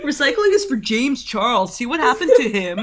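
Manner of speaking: can barely get it out for laughing; giggling joke. Real, not acted. Joking, cracking up.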